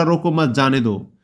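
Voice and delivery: रोको मत grouped together, then जाने दो; slow, group मत with रोको before जाने दो; second reading's phrasing. Shown as a demonstration. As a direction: say रोको मत as one unit, जाने दो after it. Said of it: "एक दूसरा".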